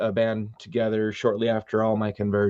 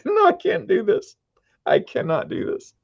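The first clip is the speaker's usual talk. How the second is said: much higher, strained cry of refusal, fading to a breathy end; mock despair. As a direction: play it as comic dismay. Retold reaction to the CD.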